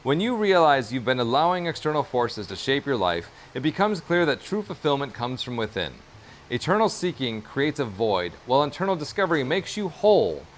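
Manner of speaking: measured narrator reading with lilting, falling phrases. Shown as a demonstration. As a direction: read it out like a narrator. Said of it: "read this in my most narratorly voice".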